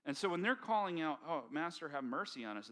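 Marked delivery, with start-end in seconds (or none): 1.3-2.7 pleading. Retold or imitated. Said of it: "they are pleading".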